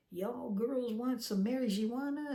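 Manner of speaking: put-on broken Southern accent. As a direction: imitate the driver's broken Southern accent, drawn out. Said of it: "in this very broken Southern accent".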